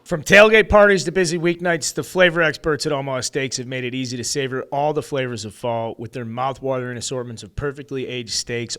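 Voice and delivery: punchy commercial announcer opening; host reading sponsor copy, announcer style. Acted. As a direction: sell it like a radio spot. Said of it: "I could read the rest of this ad copy".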